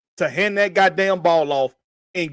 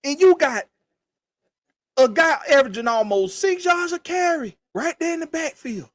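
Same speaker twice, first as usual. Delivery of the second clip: exasperated shout; 8 semitones higher than usual. Real, not acted. Ranting at Falcons fans about the play call, exasperated shout. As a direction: yell it like you can't believe it.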